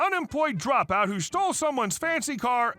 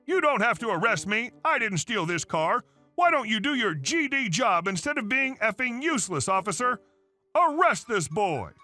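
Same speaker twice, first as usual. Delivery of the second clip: berating mother; 4 semitones higher than usual. Acted.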